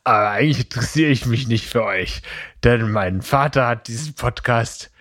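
a hint of spoiled rich brat; Draco Malfoy impression. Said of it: "ich begrüße jetzt noch mal ganz kurz so, wie ich glaube, dass Draco Malfoy begrüßen würde".

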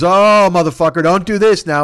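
retold friend snapping back in exasperation; mock angry outburst. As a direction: act out a friend fed up. Friend's annoyed reply, retold.

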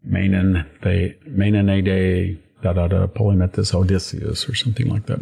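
sing-song hexameter with slowed "Menonade"; rolling dactylic verse. Shown as a demonstration. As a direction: chant the line in dactylic rhythm. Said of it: "They have a beat".

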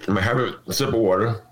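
stepped back from the microphone; distant, off-mic and quick; far from mic. Real, not acted. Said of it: "I'm gonna step away from the mic".

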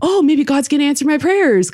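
high, hopeful inner voice; hopeful thought. Retold or imitated. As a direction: lift it like a sudden hope. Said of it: "And I was like".

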